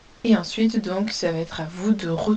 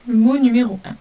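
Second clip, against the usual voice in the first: 1 annonce forte; 4 semitones higher, 8 dB louder, faster than usual. Shown as a demonstration. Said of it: "annonce du mot".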